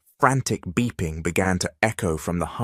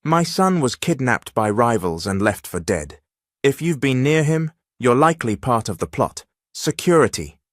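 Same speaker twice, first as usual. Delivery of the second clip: barking orders; 5 semitones higher than usual. Acted. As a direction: bark it at the guards. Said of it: "She barked".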